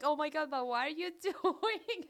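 amused, incredulous question with a laugh in it; half laughing at her son's antics; laughing disbelief. Retold or imitated. Mother laughing at son walking backwards, amused disbelief. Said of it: "And I was like".

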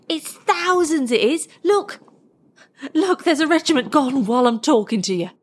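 high, amazed soldier's cry; thrilled soldier, pitch leaping up; excited bellowing soldier. A narrator's reading. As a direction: call it out in rising astonishment to a comrade. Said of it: "he bellowed to the man next to him".

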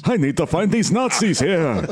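put-on Al Pacino Jewish accent. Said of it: "over-the-top Jewish accent".

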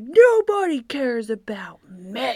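mock dramatic teen. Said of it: "being epically dramatic".

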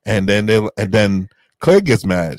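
ordinary talk

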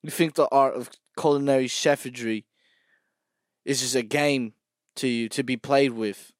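a British chef scolding a cook; British accent. Acted. Mock British celebrity chef. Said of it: "British accent language".

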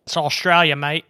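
put-on Australian accent. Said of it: "keep that accent".

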